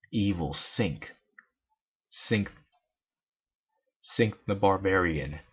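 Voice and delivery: low, slow dramatic naming; ominous announcer. A narrator's reading. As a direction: announce the villain gravely.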